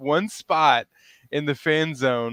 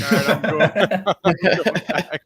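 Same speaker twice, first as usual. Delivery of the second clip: laughing reply; 5 semitones higher, 4 dB louder than usual. Retold or imitated. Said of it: "So I was like".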